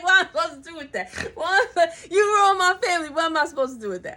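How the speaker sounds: fast, half-laughing, half-crying disbelief; laughing through tears. Acted. Betrayed woman answering an apology, laugh-crying fast. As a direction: tumble the words out between laugh and sob.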